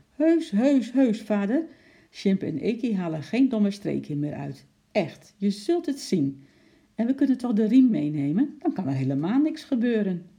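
high, loud, insistent begging; pleading child. A narrator's reading. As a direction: plead eagerly to win father over. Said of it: "die smekend voor hem stond".

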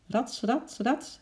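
high, spoken "rats" swishes; swinging swish noises. A narrator's reading. Chimp swinging along the branches, high swishing noises. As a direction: voice each swing as a sound effect.

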